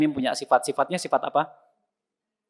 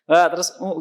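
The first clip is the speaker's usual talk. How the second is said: laughing attempt; 4 semitones higher, 4 dB louder than usual. Shown as a demonstration. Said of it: "Bisa nggak tanpa monyong".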